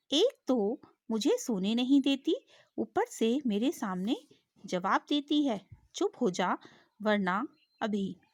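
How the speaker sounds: a lion losing patience, mildly hammed; angrier lion. Teacher voicing lion, angrier at the fly. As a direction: scold the cheeky fly with rising anger. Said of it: "शेर का गुस्सा बढ़ गया".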